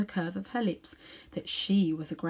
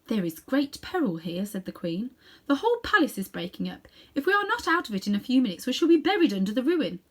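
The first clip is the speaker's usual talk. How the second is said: calm queen; 4 semitones higher, 4 dB louder than usual. Acted. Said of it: "She spoke calmly".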